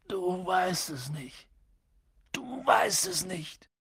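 soft drawn-out dismay; stunned disbelief. A narrator's reading. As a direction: let it sink in, appalled. Hagrid stunned by Harry's ignorance.

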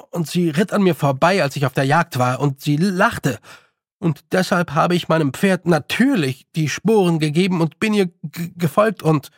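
put-on animated boy, breaking off mid-sentence; boy Roland recounting. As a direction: tell it eagerly, tripping near the end.

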